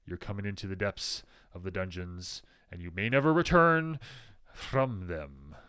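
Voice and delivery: hammed-up sinister narrator; ominous villain. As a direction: play the doom-laden dungeon host. Spooky dungeon tour for viewers.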